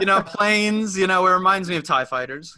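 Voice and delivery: teasing, through laughter; mock his reasoning while laughing. Real, not acted.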